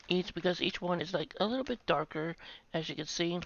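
mid-snack speech; possibly chewing while speaking; talking with chip at lips. Real, not acted. Seen 0: Holds chip at lips, maybe chewing, while showing it.

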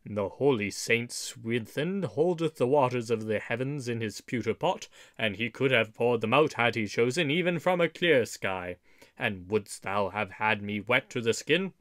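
low gruff grumble; growled. Acted. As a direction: keep growling low and sulky. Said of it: "growled Little John".

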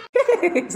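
short high giggle; amused giggle. Acted. Amused that food is all that matters, high giggle. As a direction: burst into a high, falling giggle.

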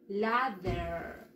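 ladder said softly, la-der; English ladder. Shown as a demonstration. Teacher modeling ladder quietly for the class. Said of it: "se pronuncia igualito".

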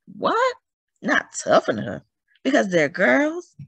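high, indignant disbelief; indignant outburst. Acted. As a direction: scoff at the men's doubt. Clara outraged at the men.

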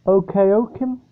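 Okeokim said as oh-kay-OH-kim, rising; unsure stab at Okeokim, oh-kay-oh-kim; tentative pronunciation. Shown as a demonstration. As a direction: try Okeokim with a long first oh, questioning. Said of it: "not sure how this is pronounced".

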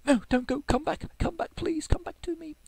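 hammed-up plea to the departing postman; playful pleading. Real, not acted. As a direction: beg him to come back, half laughing. Calls to leaving postman.

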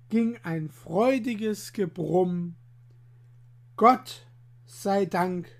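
lively rhyming story read aloud; bouncy verse storytelling; poem recitation. A narrator's reading. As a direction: tell the rhymes like a storyteller for children. Rhymed tale read aloud.

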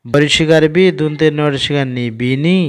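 বরিশিকার বি, দুন্তে ন, ঋষিকার নি, then join as বিনি; spelling out syllables. Shown as a demonstration. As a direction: spell each letter then blend into বিনি. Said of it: "তাহলে কেমন করে উচ্চারণ করব?". (বানান করে ধীরে ধীরে পড়া)

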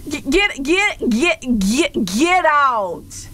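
stammered high protest; sputtering outrage. Acted. Streamer throwing out the joker, sputtering. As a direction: stutter up to a drawn-out final word.

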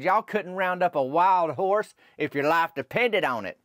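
mild mock holler at the squirrels; fired-up taunt, half yelled; retold holler. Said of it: "I hollered at them squirrels".

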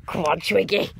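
breathy whispered urging; hushed cheer for a friend. Real, not acted. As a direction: whisper the encouragement under your breath. Urging friend on, then louder.

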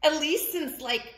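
high, coy pigeon voice; lilting high chat bursting into a shout; pigeon character, chatty then thrilled. Acted. Pigeon confiding in the reader about a long-held wish, excited.

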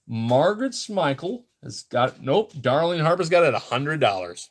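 rhythmic auction bid calling; steady, sing-out auctioneer patter; auctioneer's bid call. Real, not acted. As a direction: call out each new bid to the room. Calls live online auction bids.

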